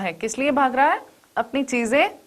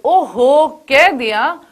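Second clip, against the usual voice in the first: irritated outburst; 3 semitones higher, 5 dB louder, slower than usual. Retold or imitated.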